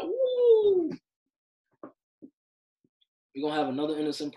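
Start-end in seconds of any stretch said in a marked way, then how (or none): 0.0-0.9 a sudden high woo; high whooping exclaim. Real, not acted. Podcaster imagining a Black suspect, letting out a high whoop. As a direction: whoop it out to say it'd go very differently.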